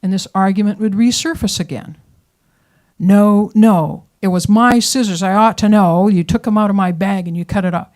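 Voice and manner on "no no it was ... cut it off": loud, firm insisting; stubborn wife claiming her scissors; a loud, stubborn wife insisting she's right; insistent wife. Retold or imitated. Wife insisting in old quarrel.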